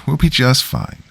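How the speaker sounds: lifted, reassuring insistence on be. Acted. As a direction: gently reassure the worried neighbour. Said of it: "I reassured him".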